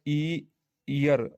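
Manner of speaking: "ईयर" drawn out from a long "ई"; pronunciation demo. Shown as a demonstration. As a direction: sound out "ई", then "ईयर", very slowly. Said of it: "ये ईयर बोलता है".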